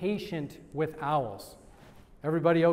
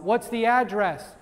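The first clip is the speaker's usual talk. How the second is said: mock call-out, pitched up and louder; retold yell; 4 semitones higher, 5 dB louder than usual. Somebody yells out during a listing presentation, mock yell. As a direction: imitate someone yelling out a question. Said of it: "Somebody yells out".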